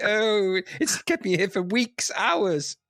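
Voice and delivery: panicked high call for help; being chased. Pretend. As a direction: call the police up a tree, frantic. Acted panicked call, chased by bear.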